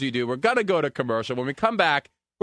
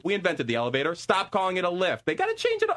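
high, worked-up rant about British words; 7 semitones higher than usual. Real, not acted. Host rants to co-host about British spellings, higher and indignant. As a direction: get indignant and climb higher.

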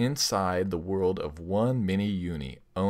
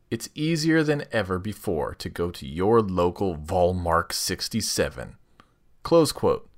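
sultry ad read; 4 dB louder than usual. Acted. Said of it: "Use that sultry voice of yours".

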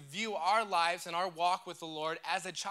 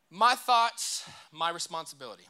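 call to repeat; 5 dB louder than usual. Shown as a demonstration. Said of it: "Everybody say it with me".

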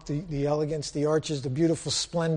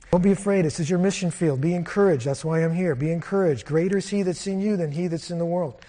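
loud, fervent preacher's exhortation; preaching encouragement; 4 dB louder than usual. Acted. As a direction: lift the congregation's courage, loud.

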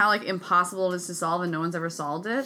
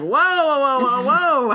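higher-pitched run of whoas; mock-startled interjection; retold alarm; 6 semitones higher, 4 dB louder than usual. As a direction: act out putting the brakes on. Acting out own alarmed reaction.

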